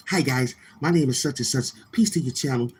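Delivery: lightly mimicked meek troll greeting; a hint of a sweet-talking guest saying hello; mock polite greeting. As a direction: imitate him being nice and timid. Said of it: "you couldn't say nothing except".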